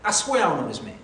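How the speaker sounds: firm denial at an everyday pitch; sworn denial. Acted. Peter denying Jesus before the bystanders, sworn denial. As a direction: swear it plainly and firmly. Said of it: "he denied with an oath".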